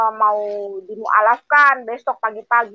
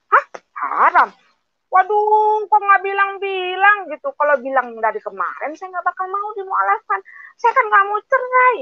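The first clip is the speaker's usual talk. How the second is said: shocked protest; 9 semitones higher than usual. Retold or imitated. Shock at hearing "haram.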